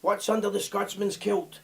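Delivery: put-on a self-admitted terrible Dutch accent; slow, drawn-out Dutch accent impression. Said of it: "the accent's terrible".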